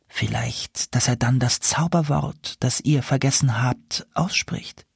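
a hint of an owl princess; confiding owl princess. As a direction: explain it as the enchanted owl.

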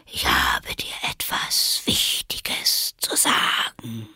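inviting caterpillar. A narrator's reading. The caterpillar invitingly calls Alice back. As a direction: lure her back gently. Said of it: "Das klang sehr einladend".

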